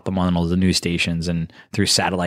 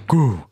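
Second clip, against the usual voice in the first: higher-pitched "goo" sound effect; imitated thud noise; 5 semitones higher, 4 dB louder than usual. Heavy stage diver landing in the audience, imitated impact noise. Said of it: "you heard".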